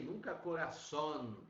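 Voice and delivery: "coração" with a wide open O, shown as the mistake; showing students the mistake; wrong open O. Shown as a demonstration. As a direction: open the O in "coração" as the error to avoid. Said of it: "nunca vamos abrir".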